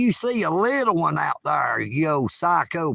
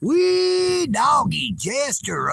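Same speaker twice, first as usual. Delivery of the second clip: slow, higher whooping holler; hillbilly whoop; 6 semitones higher, slower than usual. Acted. Eagle Nick whooping to his chat, hammed-up holler. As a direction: stretch out a happy redneck yell.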